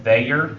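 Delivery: they're as THEY-er; two words together. Shown as a demonstration. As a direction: split they're into they plus er. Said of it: "putting two words together".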